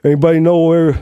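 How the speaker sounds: a hammed-up mob tough asking around; deep Italian mobster. Shown as a demonstration. Italian mobster accent quoting a movie line for the host. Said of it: "the deep Italian one".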